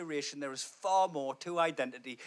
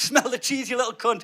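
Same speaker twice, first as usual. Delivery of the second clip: coaxing the dog; 5 semitones higher, 5 dB louder than usual. Retold or imitated. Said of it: "and you're like".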